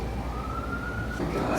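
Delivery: high whispered stretched oh my god; breathless gasp. Real, not acted. Friend seeing an old photo, breathless gasp. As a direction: gasp it out slowly, amazed.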